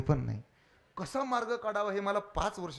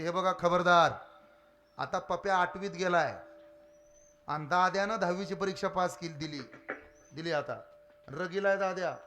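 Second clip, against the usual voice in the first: defiant wife; 6 dB louder than usual. Retold or imitated. Wife warns threatening husband.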